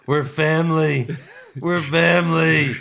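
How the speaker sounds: slow, lightly acted wrestler plea; wrestling promo. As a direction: plead it like a heel promo. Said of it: "that was the best".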